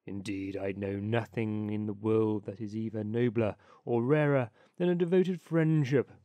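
put-on low old rat voice, lecturing; old water rat. Water rat lecturing the duck on friendship, low self-satisfied voice.

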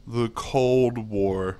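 slow, drawn-out "The Cold War"; savoring a pun. Real, not acted. Gamer savoring his good pun, slow delivery. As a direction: stretch out "Cold War" grandly.

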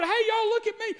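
high, loud excited shout. Acted. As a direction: call the whole town to look, thrilled. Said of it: "So excited about what God had just done".

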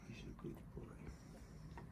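slow unvoiced whisper of praise. Real, not acted. Whispered praise near sleeping baby.

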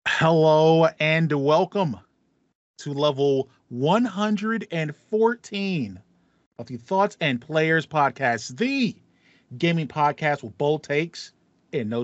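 slow announcer welcome; podcast intro. Acted. Host opening the gaming podcast, slow announcer style. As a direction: open the show like a host.

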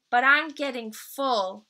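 sweet little bear cub. Acted. Little Brown Bear's voice.

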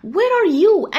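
high, lightly acted call. Bear searching for the pelican, calling out. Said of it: "هنا طبعًا بينده على البليكان".

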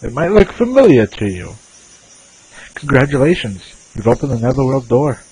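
a light put-on Irish or Scottish lilt for the game character; a faint hint of an Irish or Scottish brogue; Irish or Scottish accent. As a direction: read the character's lines in a half-hearted Irish or Scottish accent. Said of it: "I sound like I'm putting on the poor, uh, Irish or Scottish accent".

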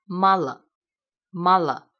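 slow "mala", full first a, reduced last a; closed unstressed a. Shown as a demonstration. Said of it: "要发闭音". (慢速示范：非重读的 a 发闭音)

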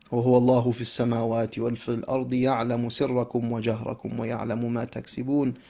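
quick, flowing recitation of the verse in Arabic; Quran recitation. Acted. Preacher quoting the verse to the congregation, recited rapidly. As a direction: recite the verse swiftly and smoothly.

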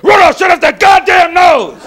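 high, loud mock outburst; hammed-up exasperated shout; irritated yell. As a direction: holler at him to quit it. Acted Santa yelling at Rudolph.

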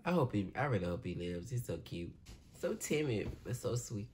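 very soft, low murmur of affection; tender sympathy. Real, not acted. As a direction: softly feel for him, voice dropped low. Pities a timid soldier on screen.

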